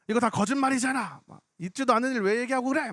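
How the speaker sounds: mildly heated mock protest, pitch up; retold angry accusation. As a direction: imitate an indignant heckler. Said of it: "막 화를 내길래".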